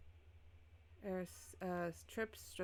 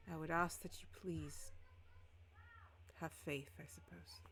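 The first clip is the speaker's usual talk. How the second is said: hushed plea. Acted.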